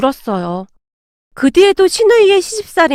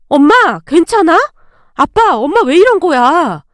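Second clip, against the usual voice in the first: alarmed. Acted. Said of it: "신우이가 놀란 듯 물었어요".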